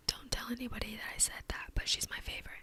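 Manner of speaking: playful conspiratorial whisper. Real, not acted. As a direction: whisper it like a secret. Secret aside about favorite card.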